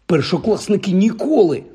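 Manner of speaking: high-pitched protest of disbelief; incredulous. A narrator's reading. Ron doubting that first years can play, incredulous. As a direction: object as if it cannot be true.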